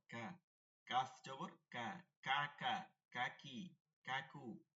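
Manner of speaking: soft, light k in কা, কাকি, কাকু; very soft kaf. Shown as a demonstration. Teacher drilling light kaf for pupils, very soft. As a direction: keep every k in কাকি light. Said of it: "একদম নরম".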